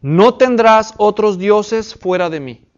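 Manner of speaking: slow, weighty reading of a commandment; slow scripture reading. Shown as a demonstration. Teacher reading the first commandment to the class, slow and weighty. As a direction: read it out slowly, each word weighed. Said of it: "mandamiento número uno".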